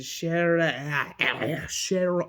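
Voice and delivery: stumbling into a British "Sharon"; accidental British accent. Real, not acted. Vlogger fumbling a character's name, slipping into British accent. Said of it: "I'm doing a British accent for no reason".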